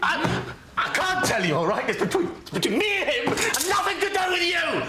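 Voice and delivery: high, cracking-point shout building to the end; angry outburst. Acted. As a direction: explode at being pushed to tell. Patient erupts at therapist's pressing questions.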